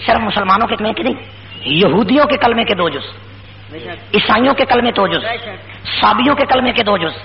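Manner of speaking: forceful, rhythmic sermon delivery; emphatic preaching. Real, not acted. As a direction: drive each repeated phrase home to the congregation. Preacher drills and declaims creed. (پُرزور خطیبانہ انداز میں تقریر)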